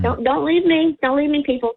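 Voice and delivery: slightly harsh, scratchy throat; rough voice after choking on flour. Real, not acted. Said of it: "My voice sounds a bit harsh".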